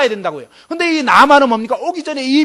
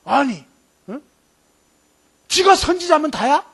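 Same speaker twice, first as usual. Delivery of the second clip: angry retort; 3 semitones higher than usual. Retold or imitated. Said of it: "분노하여 막 떠나면서".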